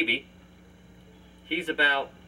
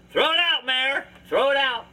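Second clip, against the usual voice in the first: dad yelling; 7 semitones higher than usual. Retold or imitated. Dad telling his son to toss the junk, mock yell. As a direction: bark it like an impatient dad.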